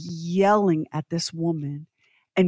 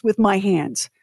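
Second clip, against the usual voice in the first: mock murderous threat; 3 semitones higher, slower than usual.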